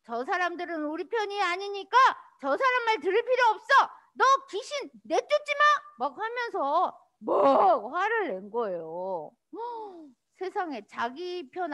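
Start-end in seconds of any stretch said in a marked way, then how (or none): 0.0-6.1 angry. Acted. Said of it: "요한이 화를 내면서". 9.5-10.8 gasped, hushed shock; mock shocked gasp.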